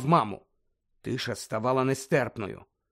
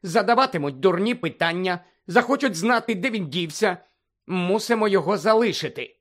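brisk and sharp; 4 semitones higher than usual. Acted. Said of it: "жваво і різко".

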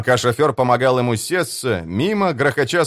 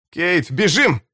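shout; 6 semitones higher, slower than usual. Acted. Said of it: "крикнул Бивис".

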